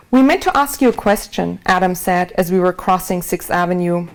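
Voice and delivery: steady, measured reading aloud to an audience; book reading. A narrator's reading. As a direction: read your own memoir to the room, even and clear. Author reads her book aloud.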